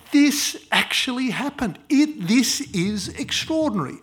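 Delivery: loud, high, booming announcement; big voice. Pretend. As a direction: proclaim it with a big voice. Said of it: "you get a big voice to say".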